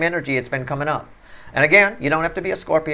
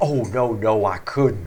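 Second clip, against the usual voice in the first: very slow, pretend-polite, fake polite tone; 6 semitones lower than usual. Advising a listener not to turn down a card, showing how to pretend: fake polite refusal. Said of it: "Make sure you're pretend refusing just to be nice".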